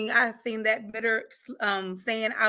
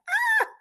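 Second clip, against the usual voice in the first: overwhelmed cry; 5 dB louder than usual. Retold or imitated. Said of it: "And I'm like".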